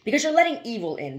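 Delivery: high and loud, pleading fervently; passionate cry. A narrator's reading. Burton warning Joseph of evil, high and loud. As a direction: cry it out with conviction. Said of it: "Burton cried passionately".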